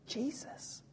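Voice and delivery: breathless whispered name; awed whisper. Acted. Saul realising who speaks to him, awed whisper. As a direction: whisper it in disbelief.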